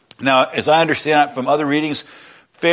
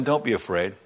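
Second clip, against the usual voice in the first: quieter, gentle "don't be afraid"; soft reassurance; 6 semitones lower, 7 dB quieter than usual. A narrator's reading. Joseph calming his frightened brothers, softly reassuring. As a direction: say "don't be afraid" softly, easing their fear. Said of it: "he spoke kindly to them".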